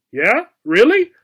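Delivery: high, loud eager disbelief; cat suddenly thrilled about a hairball; cheering up. A narrator's reading. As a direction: perk up all at once. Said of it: "instantly cheering up".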